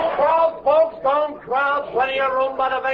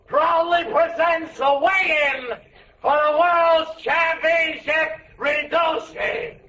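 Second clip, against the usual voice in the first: announcer voice. Acted. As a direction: present it like a prizefight. Grocer announcing to crowd.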